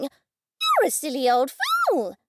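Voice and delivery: very high, slow squawking bird voice; parrot squawk. Acted. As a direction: screech it like a cheeky cockatoo. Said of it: "Max squawked".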